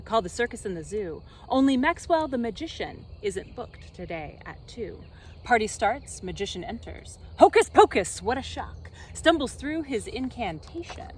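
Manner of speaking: lively, bouncing storybook narration; dramatic reading. Acted. Reader performing a children's rhyme book, animated. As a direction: read it like a picture book for kids.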